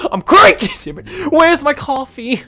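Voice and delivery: high, whiny grumpy morning voice; cranky. Pretend. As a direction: grumble for your coffee. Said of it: "so I'm a bit cranky right now".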